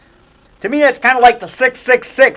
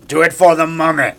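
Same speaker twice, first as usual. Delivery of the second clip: low mock-solemn urging; hammed-up ominous instruction; movie ritual command; 4 semitones lower than usual. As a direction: drop it low like a decree. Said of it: "Like I tell her, I go".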